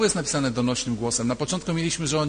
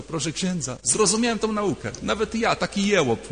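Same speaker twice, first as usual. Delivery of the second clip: quoting the simple man; 4 semitones higher than usual. Retold or imitated. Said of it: "powiedział do proboszcza".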